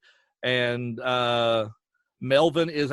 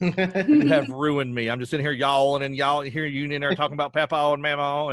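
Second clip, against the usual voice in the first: mock exasperation; 3 dB louder than usual. Wife complaining about picking up his accent, in mock exasperation. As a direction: stretch out the accusation, then rattle off examples. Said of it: "she just looks at me like".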